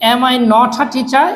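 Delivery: "not a" joined as "notha" inside the question; linked collocation. Shown as a demonstration. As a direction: link "not a" with a lightly aspirated t. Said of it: "এই not a একসাথে করব". ("not a" একসাথে "নঠা" উচ্চারণ)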